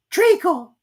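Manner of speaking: high, slow, drawn-out mouse voice; slow squeaky Dormouse. A narrator's reading. Dormouse answering Alice after long thought. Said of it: "without considering at all".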